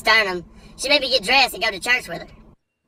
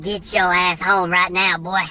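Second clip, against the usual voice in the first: slow stern mom; slower than usual. Retold or imitated. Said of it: "I said".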